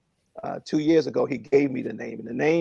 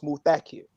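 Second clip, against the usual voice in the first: Muthakir accented on its middle syllable, THA; stress on second syllable. Shown as a demonstration. Man passing on how the minister pronounced Muthakir, second-syllable stress. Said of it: "the accent is on the second syllable".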